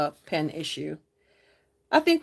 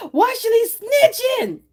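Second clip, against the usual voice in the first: playful tease; 14 semitones higher, 6 dB louder, slower than usual. Pretend. Teasing a chat viewer.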